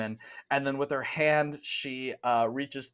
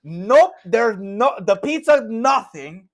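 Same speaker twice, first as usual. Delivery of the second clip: high, loud exasperated nun; scolding shout, pitched way up; nun yelling; 11 semitones higher, 10 dB louder than usual. Acted. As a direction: berate the customer in broken English. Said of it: "this nun just absolutely yell".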